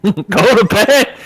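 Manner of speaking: high, loud wrestling promo yell; Ric Flair. Retold or imitated. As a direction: shout it like a pro wrestler. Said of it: "Thanks, Ric Flair".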